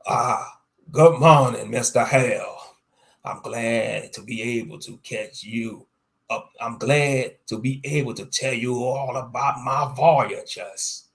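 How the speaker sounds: loud, booming pirate greeting; hearty captain's bellow. Acted. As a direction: bellow it out with swagger. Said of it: "Captain Red Rum bellowed".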